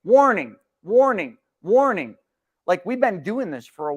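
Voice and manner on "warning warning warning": loud repeated alarm, each word falling; mock alarm call. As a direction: call it out like a flashing warning siren. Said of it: "I need one of those flashing lights".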